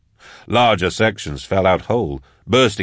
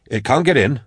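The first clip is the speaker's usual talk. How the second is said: anxious insistence; 6 semitones higher than usual. A narrator's reading. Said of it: "if he repeated it enough".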